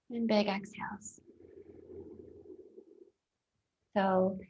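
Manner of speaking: calm meditation guide with long pauses; guided meditation. Real, not acted. Guiding listeners to notice their breath, calm guided meditation. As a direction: lead them into breathing, leaving space between phrases.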